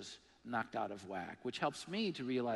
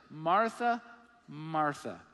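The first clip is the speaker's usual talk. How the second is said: Jesus tenderly; 7 dB louder, much slower than usual. Retold or imitated. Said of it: "he responds this way".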